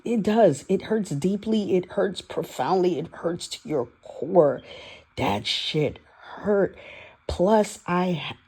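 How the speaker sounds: high, halting voice fighting back tears; near tears. Real, not acted. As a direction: struggle to get the words out without crying. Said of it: "I'm not gonna cry".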